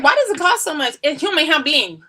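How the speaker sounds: half-hearted Asian accent impression, high and loud; lightly done Asian accent; mock Asian accent. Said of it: "I don't know how to do the Asian accent".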